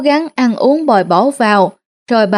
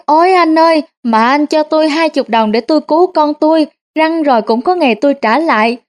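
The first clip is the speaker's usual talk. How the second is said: wailing, crying plea; 4 semitones higher than usual. Acted. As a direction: wail it out like a con man faking tears. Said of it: "Anh khóc rú lên".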